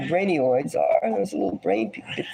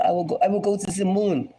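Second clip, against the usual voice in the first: quick mock French-accented line; bad French accent; faster than usual. Host mocking Macron with a bad French accent. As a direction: butcher a French accent on purpose. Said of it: "butchering of a French accent".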